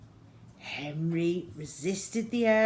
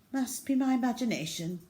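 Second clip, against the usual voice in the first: muttered; 6 semitones higher, faster than usual. Acted. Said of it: "muttered Steve".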